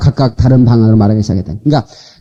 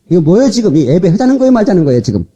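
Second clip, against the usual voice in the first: 음을 높여 따져 묻기; 예배 중에 나무라듯 높게 다그치는 시늉; 5 semitones higher than usual. Shown as a demonstration. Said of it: "막 호통도 쳐가면서". (높은 음으로 따지는 호통)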